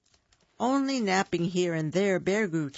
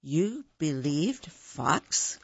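gasped; slower than usual. Acted. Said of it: "gasped Hare".

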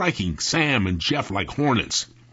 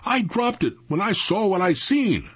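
high, plaintive wail, understated; mock sob; 10 semitones higher than usual. A narrator's reading. Jeff explaining the dropped lantern, lightly sobbing. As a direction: whine it as if near tears. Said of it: "Jeff sobbed".

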